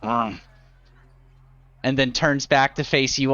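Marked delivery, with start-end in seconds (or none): 0.0-0.4 gargoyle grunt. Acted. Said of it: "turns and grunts".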